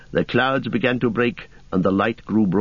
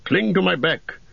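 encouraging warrior voice; rally them with hope; Boromir voice; 3 semitones higher than usual. Acted. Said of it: "he said".

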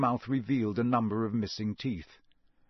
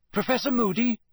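calling out loud and high across a crowd; 10 semitones higher, 4 dB louder than usual. A narrator's reading. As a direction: call his name over the crowd. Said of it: "Harry called".

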